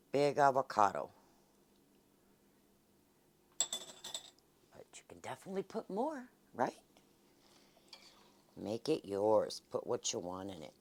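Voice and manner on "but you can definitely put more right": whispering. Real, not acted. Soft aside to viewers.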